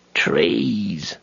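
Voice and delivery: a rich voice from the treetops; voice from above. A narrator's reading. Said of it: "said a voice out of the darkness high above".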